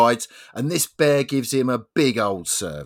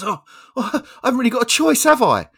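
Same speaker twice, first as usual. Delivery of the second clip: higher, louder whiny resignation; resigned bloke; 11 semitones higher, 8 dB louder, faster than usual. Acted. Bloke gives in to the bear, a high whiny voice. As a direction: whine that there's no way out.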